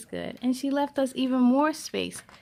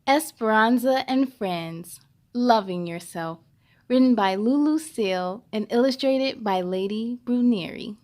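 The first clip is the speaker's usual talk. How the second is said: louder read-aloud title; 3 semitones lower, 7 dB louder than usual. Acted. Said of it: "Ready, set, let's begin".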